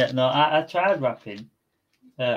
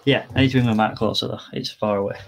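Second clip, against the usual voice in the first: big hall echo; 3 semitones lower than usual. Real, not acted. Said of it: "you sound very echoey".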